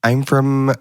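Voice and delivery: hesitant put-on American; made-up American persona, halting; American accent. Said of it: "do American accents".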